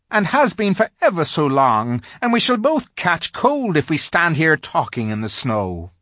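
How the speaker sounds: a nervous little faun asking politely; timid polite faun. A narrator's reading. Faun politely questions the girl, high and fussy.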